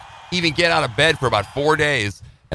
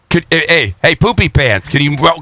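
mocking wife; 4 semitones higher, 4 dB louder than usual. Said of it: "Or she'd say".

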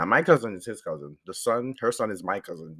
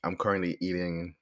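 low-key talk through a sore throat; real sore-throat voice, deeper than usual; 3 semitones lower than usual. Real, not acted. Podcaster explains the sore throat to listeners, sore-throat voice. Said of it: "my voice sounds like this".

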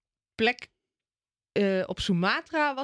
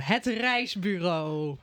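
grand title announcement; 4 semitones lower, much slower than usual. Shown as a demonstration. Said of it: "Ik heb weer een mooie titel verzonnen".

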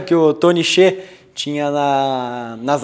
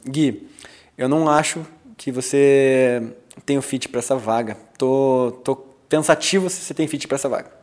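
low, soft, hesitant doubt; quiet pressure; 5 semitones lower, 6 dB quieter than usual. Acted. Interviewer testing a candidate's fit, quiet low pressure. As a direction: put them on the spot gently, voice dropped. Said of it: "Botar ela na parede, então, uma pressãozinha".

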